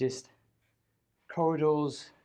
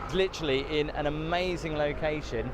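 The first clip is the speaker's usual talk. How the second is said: shouting over wind; 3 semitones higher than usual. Real, not acted. Hopefully you can hear me through the wind.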